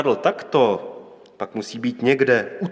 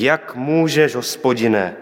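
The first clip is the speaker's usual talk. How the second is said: raised, pleading protest, short of a shout; crying out; 2 semitones higher than usual. Acted. Prophet protesting to God over the widow's son, restrained outcry. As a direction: cry out to God in mild outrage. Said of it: "I on křičí".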